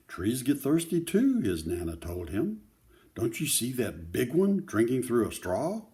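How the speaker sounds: put-on steady read-aloud voice for children; story narration. A narrator's reading. Grandparent reading a picture book to children, gentle read-aloud. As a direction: read the story to the kids, clearly.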